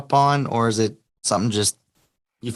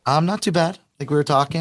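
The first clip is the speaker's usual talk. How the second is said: slightly hoarse, still recovering voice; raspy voice; 2 semitones higher than usual. Real, not acted. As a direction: talk through a raspy throat. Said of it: "I got a little raspy voice".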